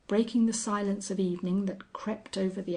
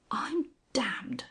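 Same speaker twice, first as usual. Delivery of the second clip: I'm damned, pressed out with emphasis; immense emphasis; 3 semitones higher than usual. A narrator's reading. Sir John spotting the Angel, emphatic oath. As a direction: lean hard on the oath. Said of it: "with immense emphasis".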